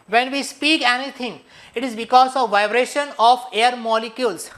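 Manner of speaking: slow, deliberate English reading; measured reading of the English definition; slow textbook read. Acted. Reads English textbook slowly.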